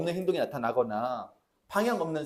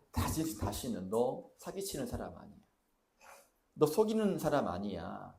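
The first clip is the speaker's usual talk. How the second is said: firm but quiet; 4 semitones lower, 5 dB quieter than usual. Pretend. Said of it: "단호하게, 강력하게 부정하셨다고요".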